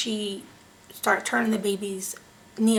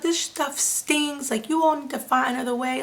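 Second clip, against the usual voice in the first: fussing and complaining; 5 semitones higher than usual. Retold or imitated. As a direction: fuss at the doctor about the sting. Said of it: "fussing and complaining and fussing them out".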